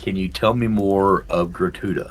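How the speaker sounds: hushed, low-volume voice. Speaking so that not many people nearby can hear, in a hushed tone. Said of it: "say in a hushed tone".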